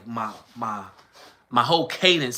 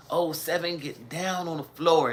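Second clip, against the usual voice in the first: clowning mockery; 5 semitones higher than usual. Classmates clowning the proper talker after the rally, mocking. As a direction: mimic an over-proper "floor" to tease. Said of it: "just clowning me".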